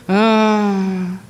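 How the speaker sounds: two moans in different keys; practised moan. Shown as a demonstration. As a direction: try out staged little moans. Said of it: "I moaned in various keys".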